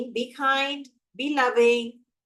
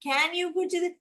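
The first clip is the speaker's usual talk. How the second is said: higher, lightly pleading requests; mock asking for permission rather than instructing; tentative asking; 5 semitones higher than usual. What the air hostess avoids, higher asking voice. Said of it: "She's not asking me".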